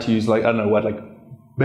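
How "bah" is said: "Bah" drawn out with a rounded mouth; rounded-mouth vowel. Retold or imitated. Teacher recalls own odd attempt, rounded-mouth vowel. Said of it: "with my mouth rounded".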